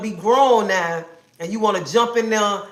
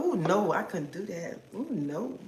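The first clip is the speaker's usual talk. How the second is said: softer, prissy ooh no; mock prudish woman; 7 dB quieter than usual. Women viewers refusing the idea, softer prissy mock voice. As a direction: imitate a shocked church lady, hushed. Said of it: "some women on here gonna tell me".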